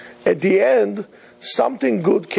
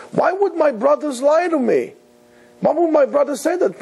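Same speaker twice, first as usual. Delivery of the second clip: tearful lament; 8 semitones higher than usual. Retold or imitated. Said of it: "And he's crying".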